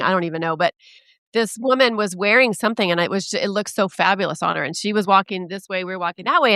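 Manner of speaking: normal talking voice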